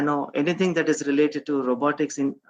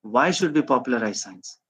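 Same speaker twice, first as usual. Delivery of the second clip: lower-pitched rebel's challenge; rebellious questioning; 4 semitones lower than usual. Shown as a demonstration. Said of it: "more like that of a rebel".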